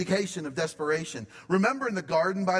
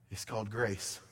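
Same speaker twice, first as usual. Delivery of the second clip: softer statement; 6 semitones lower, 6 dB quieter than usual. Acted. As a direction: lower and softer, settling down. Repeated line, second much softer.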